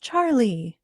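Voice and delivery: high, slow, pleading voice; anguished, sorry appeal; remorseful cry. Acted. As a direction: cry his name full of remorse. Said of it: "all remorse".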